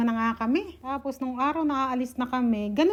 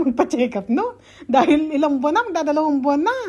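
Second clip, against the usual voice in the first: louder, words pushed out through laughter; fast and laughing, louder at the end; laughing while talking; 2 semitones higher, 7 dB louder than usual. Real, not acted. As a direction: laugh your way through the admission. Admits wanting a check-up.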